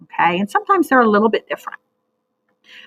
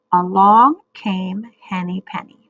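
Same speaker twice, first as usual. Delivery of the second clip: choral reading model. Shown as a demonstration. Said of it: "We'll do it two times".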